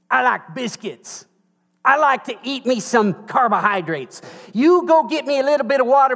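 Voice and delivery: mock-demanding prophet, rising into a high, loud whine; hammed-up hungry prophet ordering pancakes; demanding Elijah. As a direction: prophet pestering a widow for bread, mock whiny and demanding. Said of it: "he called to her".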